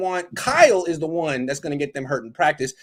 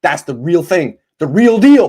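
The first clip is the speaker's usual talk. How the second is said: hype; 2 semitones higher, 10 dB louder, slower than usual. Real, not acted. Hyping guest is really Welsh.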